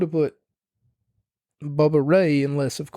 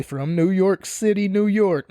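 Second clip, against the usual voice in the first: higher, lightly hammed-up announcer call; mock ring announcement; 5 semitones higher than usual. Reviewer mocking the announcer's intro of the wrestler's hometown, mock announcer call. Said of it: "you're gonna say".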